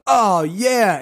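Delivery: a light, loud, high oh yeah; hammed-up perky reply; mock saleswoman. Saleswoman reacting to his answer, lightly mocked. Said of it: "she was like".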